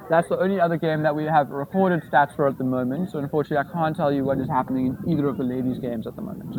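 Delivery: words muffled by food. Real, not acted. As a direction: talk through a muffled mouth. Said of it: "This muffled voice".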